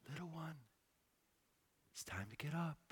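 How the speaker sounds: put-on whispered gently to a sleeping child; soft wake-up whisper. Father softly waking his sleeping daughter, whispering. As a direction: hush it like waking a kid. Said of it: "I'll go in in the morning and just touch her face or stroke her hair".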